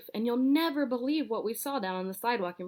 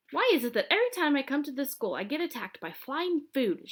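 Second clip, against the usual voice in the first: angry shout; 6 semitones higher than usual. Acted. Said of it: "shouted Elementary".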